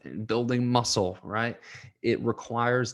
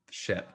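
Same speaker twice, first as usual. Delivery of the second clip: tearful sigh; 2 semitones lower, 6 dB quieter than usual. Real, not acted. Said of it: "starting to tear up a little bit".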